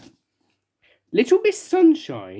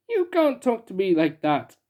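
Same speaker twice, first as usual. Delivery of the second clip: sobbing; 3 semitones higher than usual. Acted. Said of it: "sobbed the king".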